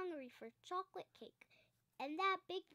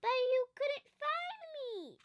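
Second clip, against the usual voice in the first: much higher, louder little squeak; a proud little bear teasing daddy; squeaky cub voice; 9 semitones higher, 8 dB louder than usual. A narrator's reading. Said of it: "squeaked Little Bear".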